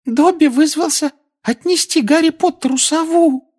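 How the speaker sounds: very high adoring elf squeak; squeaky elf. Acted. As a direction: squeak it with adoration. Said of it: "с обожанием на лице пропищал эльф".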